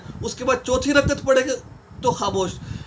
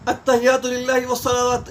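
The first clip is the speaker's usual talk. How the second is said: Arabic prayer recitation; recited. Shown as a demonstration. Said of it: "اس کو تشہد کہا جاتا ہے".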